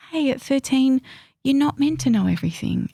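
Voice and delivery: kind. Retold or imitated. Adult speaking to her thirteen-year-old self, tender and reassuring. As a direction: soothe a scared younger self. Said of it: "to be really kind to".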